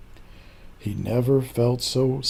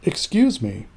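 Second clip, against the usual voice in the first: polite cricket; 4 semitones higher than usual. Acted. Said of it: "coughed a cricket".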